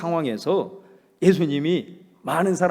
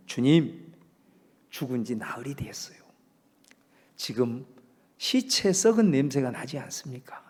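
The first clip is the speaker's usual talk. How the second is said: softer, half-whispered objection; hushed whisper; 4 semitones lower, 5 dB quieter than usual. Retold or imitated. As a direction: whisper it as if afraid of the tomb. Martha's fearful objection at tomb.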